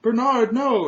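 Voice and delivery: high-pitched mock scream for help; panicked screaming. Woman watching the knight get stabbed, panicked screaming. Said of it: "like, screaming, and she's, like, panicking".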